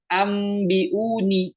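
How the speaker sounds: "ambiuni" chanted with a clear, closed m; "ambiuni" with an unveiled m; m too clear. Shown as a demonstration. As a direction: close the lips firmly on the m of "ambiuni". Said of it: "bukan ambiuni".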